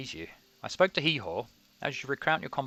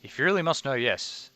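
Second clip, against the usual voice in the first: a haughty, raised take; 4 semitones higher, 4 dB louder than usual. Acted. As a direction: say it with lofty disdain. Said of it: "repeated line".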